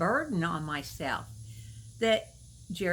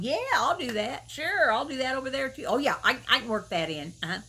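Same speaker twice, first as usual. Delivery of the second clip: eager people-pleaser; 2 semitones higher than usual. Retold or imitated. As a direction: rattle off yeses like you can't say no.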